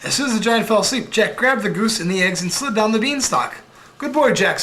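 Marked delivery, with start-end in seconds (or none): 4.0-4.6 mother's voice. Acted. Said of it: "said his mother".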